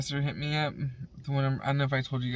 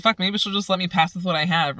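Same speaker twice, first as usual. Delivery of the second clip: hopeful thought; 5 semitones higher, 7 dB louder than usual. Retold or imitated. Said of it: "I was like".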